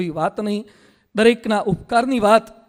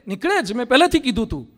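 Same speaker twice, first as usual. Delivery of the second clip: chest-thumping boast; 3 semitones higher than usual. Retold or imitated. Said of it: "છાતી ઠોકીને કે".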